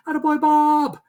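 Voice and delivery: fan cheer. Retold or imitated. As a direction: cheer the batter on from the stands. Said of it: "he'd be like".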